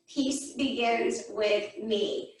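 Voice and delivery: slow, low, softened mantra; measured, low chant, word by word; meditation mantra. Shown as a demonstration. Yoga teacher introducing a meditation to the class, slow mantra. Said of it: "We want to do another quick meditation".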